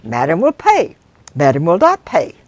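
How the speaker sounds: high, loud indignant refusal; indignant Janice. Acted. Passenger refusing the driver's extra pound, loud and indignant. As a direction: refuse flatly, affronted.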